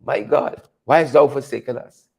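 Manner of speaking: hushed mock prayer to God; mock lament. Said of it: "I say".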